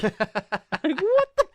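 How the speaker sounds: high-pitched, squeezed through laughing; real laughing disbelief; helpless laughter. Real, not acted. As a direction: crack up while talking. Cracking up recalling the insult.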